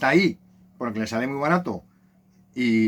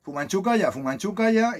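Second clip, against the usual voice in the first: parrot voice; 8 semitones higher than usual. Retold or imitated. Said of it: "El loro".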